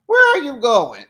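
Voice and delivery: loud, laughing call-out; laughing shout. Real, not acted. Vlogger calling out to the man walking off with bags. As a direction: shout after him through laughter.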